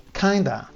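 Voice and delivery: 'kinda' squeezed into two syllables, kanda; reduced kinda. Shown as a demonstration. Teacher showing learners how natives shorten kind of, 'kinda' as kanda. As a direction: blend 'kinda' into a single chunk. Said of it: "O kinda".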